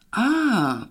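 krótkie, wyższe a z odrobiną ulgi; z lekką ulgą. A narrator's reading. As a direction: odetchnij lekko. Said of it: "z lekką ulgą". (sekretarka lekko uspokojona, z ulgą)

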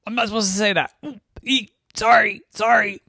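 high-pitched little oops voice; sheepish apology. Acted. Brother caught saying not so nice things, sheepish high apology. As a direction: squeak an embarrassed apology.

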